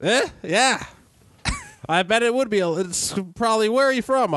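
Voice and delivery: put-on high, thin old lady voice; elderly woman voice. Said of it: "my elderly voice isn't very good".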